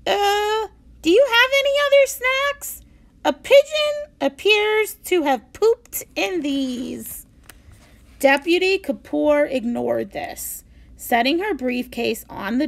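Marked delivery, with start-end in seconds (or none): 0.1-7.3 嫌弃的语气; disgusted. A narrator's reading. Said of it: "made a face of disgust".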